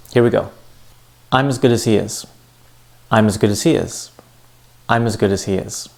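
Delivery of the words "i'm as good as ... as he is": GOOD and HE longer, "as" and "is" quick and linked; sentence stress demo. Shown as a demonstration. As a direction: stress "I'm", "good", "he", rush the small words between. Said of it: "I said them louder and longer".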